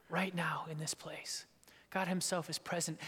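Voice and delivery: hushed reverent whisper. Real, not acted. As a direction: whisper it in awe. Awe at real presence.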